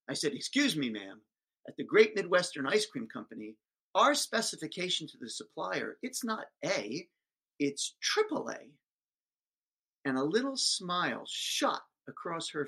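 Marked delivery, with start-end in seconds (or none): 0.3-8.7 jerk. Retold or imitated. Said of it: "like a jerk, I interrupted her".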